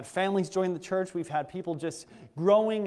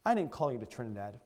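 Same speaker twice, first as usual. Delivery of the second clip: voice of God; 4 semitones lower than usual. Retold or imitated. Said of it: "what he said to me".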